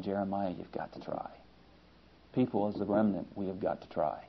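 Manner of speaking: soft, half-whispered urging; inner voice. Retold or imitated. The heart urging Jeremiah and the remnant, hushed. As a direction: breathe it like a quiet conscience. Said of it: "And his heart was saying".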